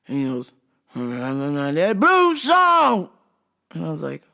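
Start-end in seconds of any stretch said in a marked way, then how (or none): 0.9-3.1 mumble into yell. Retold or imitated. Customer to the store worker, mumbling then yelling. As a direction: imitate a mumble that erupts into a drawn-out yell. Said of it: "but then would yell".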